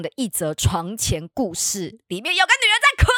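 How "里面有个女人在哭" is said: laughing. Real, not acted. Punchline then laughing.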